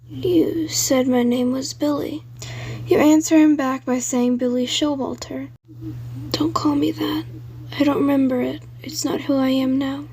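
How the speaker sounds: put-on a ghost child warning in a breathy hush, fading into whisper; haunted ghost boy. Billy's ghost voice.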